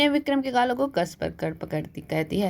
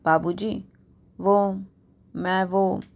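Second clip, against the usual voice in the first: scared stammer; much slower than usual. A narrator's reading. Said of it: "डरता हुआ अटक अटक कर बोलता है".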